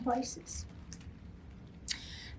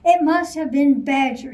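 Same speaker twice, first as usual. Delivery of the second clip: a louder grumbling bear; grumbled; 6 dB louder than usual. Acted. Bear blaming Badger, grumbled. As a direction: grumble it angrily. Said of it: "he grumbled".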